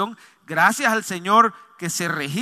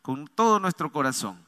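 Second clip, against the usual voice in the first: lower, earnest prayer voice; congregational prayer; 4 semitones lower than usual. Real, not acted. Pastor praying for the congregation before the message, lower prayer voice. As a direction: lead the church in prayer, pitched low.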